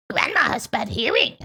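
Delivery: a secret aside to the listeners; whispered aside. Real, not acted.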